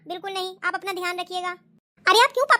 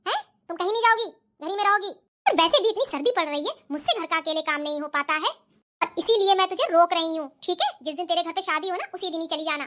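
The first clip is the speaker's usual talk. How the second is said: scolding mother-in-law. Acted.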